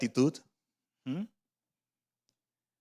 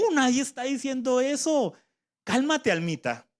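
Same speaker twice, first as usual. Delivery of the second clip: soothing the soul; 8 semitones higher than usual. Shown as a demonstration. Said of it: "digamos todos a la vez".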